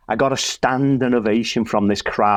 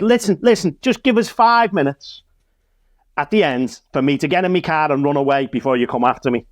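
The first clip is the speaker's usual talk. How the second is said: high, urgent pleading with a hostile crowd; mock pleading; 4 semitones higher than usual. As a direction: beg them for a head start, half joking.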